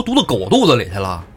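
hammed-up furious threat; 宋江对仇人发狠; acted rage. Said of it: "就那表情才能说这番话".

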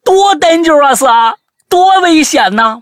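high, loud drawn-out cry; friend's exaggerated high-pitched yell of alarm; imitated alarmed shout. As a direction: cry out a shocked warning, stretching the words. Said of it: "我朋友大叫说".

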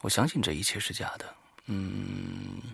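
ordinary delivery

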